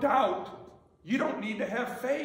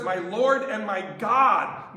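slow and louder, Lord stressed; proclaimed confession; 5 dB louder, slower than usual. Shown as a demonstration. Preacher proclaiming Thomas's words, loud and firm. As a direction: declare it to the room. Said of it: "He says".

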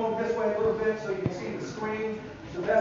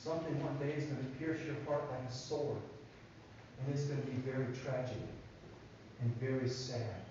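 solemn prophecy; 8 semitones lower, 9 dB quieter than usual. Retold or imitated. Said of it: "told his mother and dad".

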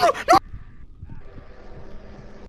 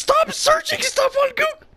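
yelling at Google. Real, not acted. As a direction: shout it at the phone. Yelling at voice assistant.

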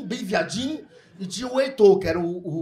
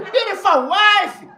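higher, louder, slow broken-English compliment; mock Indian shopkeeper; 10 semitones higher, 7 dB louder, much slower than usual. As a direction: drawl it out like the shopkeeper.

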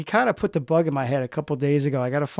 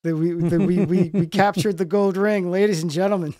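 lightly mocked-up show announcer, slightly raised; hype announcer; 3 semitones higher than usual. Host jokingly hyping up a special guest, mock announcer. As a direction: draw it out as a playful big reveal. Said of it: "we should really hype it up".

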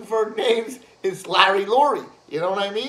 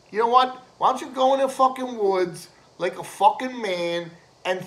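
mock challenge; 2 semitones higher, 4 dB louder than usual. Shown as a demonstration. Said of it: "I say it like this".

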